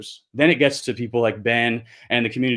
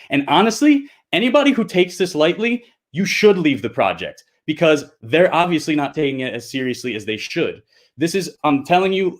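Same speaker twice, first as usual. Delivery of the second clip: real heated outburst, pitched much higher at the start; 3 semitones higher than usual. Real, not acted. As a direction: push back hard, frustrated and fed up. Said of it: "I'm sorry that I'm getting so heated".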